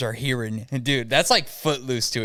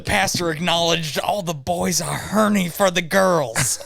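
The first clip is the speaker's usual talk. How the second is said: laughing; 5 semitones higher than usual. Real, not acted. Joking, laughter heard.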